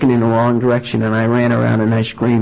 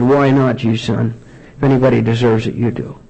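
gentle fatherly answer. Retold or imitated. Father answers his sober son, gentle reassurance.

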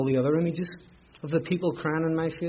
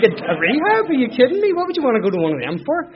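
loud, high mock outrage; comic disbelieving holler; scoffing incredulity; 9 semitones higher, 8 dB louder than usual. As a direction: scoff at the very idea, voice shooting up. Mocking the idea of going to rehab.

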